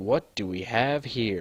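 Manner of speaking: wet, gurgling monster voice. Narrating a game, voicing something speaking from above the players, gurgling voice. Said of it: "A gurgling voice says from above".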